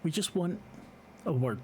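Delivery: put-on measured request in a Russian accent. Assailant asks Harry to come along, in a Russian accent. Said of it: "this accent is heavily, heavily Russian".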